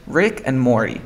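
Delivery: Rick and Morty with Morty as "Mor-ee"; "Morty" gliding from R to vowel. Shown as a demonstration. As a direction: drop the T in "Morty". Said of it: "pero tú dices Morty".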